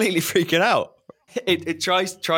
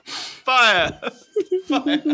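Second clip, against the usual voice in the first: siren sound; 10 semitones higher, 4 dB louder than usual. Acted. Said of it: "Is that just a convenient siren, or is that someone's sound effect".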